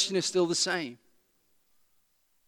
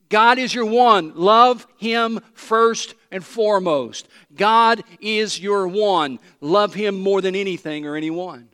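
slow preaching emphasis; 5 dB louder, slower than usual. Real, not acted. Preaching the central point.

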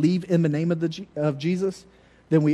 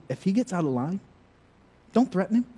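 mom voiced higher, telling the teacher to be strict; stern mom; 7 semitones higher than usual. Mother telling the teacher to just hit him, higher and firm. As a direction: play his mother laying down the law, pitched up. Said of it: "she would say to the teacher".

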